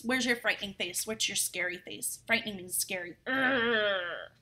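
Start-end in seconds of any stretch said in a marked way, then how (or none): 3.3-4.3 fierce growl. Shown as a demonstration. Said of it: "made a fierce, frightening face".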